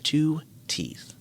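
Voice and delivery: hushed, solemn echo; whispered confirmation. Real, not acted. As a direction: whisper it back gravely. Echoes the shocked whisper.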